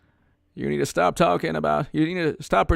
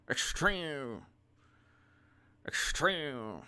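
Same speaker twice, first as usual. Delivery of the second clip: mocking an old president. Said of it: "his dumb speech the other day".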